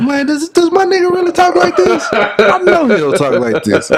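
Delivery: high-pitched, laughing disbelief; dying laughing. Retold or imitated. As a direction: relive cracking up at a friend's fake voice. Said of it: "I was dying laughing when I was listening".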